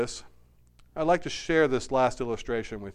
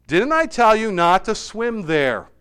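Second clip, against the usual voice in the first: louder, higher storybook scolding; scolding father; 5 semitones higher, 8 dB louder than usual. A narrator's reading. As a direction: take your son to task. Father scolds disobedient son in story.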